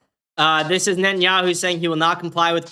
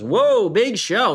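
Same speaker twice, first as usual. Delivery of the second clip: mock impressed; 4 semitones higher, 4 dB louder, much slower than usual. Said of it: "Someone goes".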